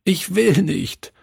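put-on high, sobbing child's "nein, nein"; frightened child sobbing no; sobbing refusal. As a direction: plead through tears, high and desperate. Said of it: "schluchzte er".

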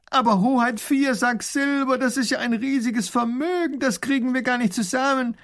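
high, loud anxious plea; pleading baron. A narrator's reading. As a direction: beg his highness to reconsider. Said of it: "ruft der Baron". (flehender Baron)

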